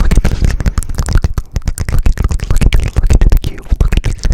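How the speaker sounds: muffled cupped hand whisper; fishbowl whisper. Shown as a demonstration. Fishbowl trigger, matrix look.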